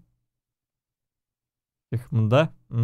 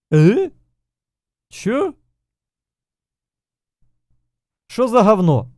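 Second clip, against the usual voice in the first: raging gamer; 6 semitones higher, slower than usual. Real, not acted. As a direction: snap at the screen in disbelief. Purchase fails, gamer outburst.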